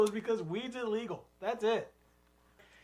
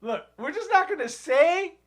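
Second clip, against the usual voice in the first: conservative city hipster; 4 semitones higher than usual. Pretend. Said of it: "type of guy like that".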